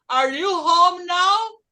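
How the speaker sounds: slow, loud, carefully spaced English; teacher models it slowly for class to copy; slow model phrase. Shown as a demonstration. Teacher models for the class, slow and loud.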